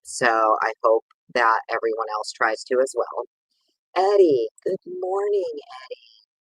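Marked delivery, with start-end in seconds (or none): 4.0-6.3 excited greeting. Real, not acted. Greeting a favorite viewer excitedly.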